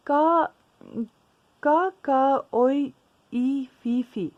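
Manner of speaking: loud, separated bird-call syllables, falling away at the end; parrot speaking bird language. Acted. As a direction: call out bird words one by one, with pauses. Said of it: "ये हमने bird के language में बोला".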